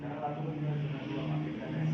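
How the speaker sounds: preacher loudly testing the audience; calling out. Real, not acted. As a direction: grab the room's attention.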